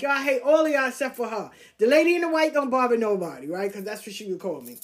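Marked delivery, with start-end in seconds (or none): 0.0-3.5 Russian lady. Retold or imitated. Russian lady defending her.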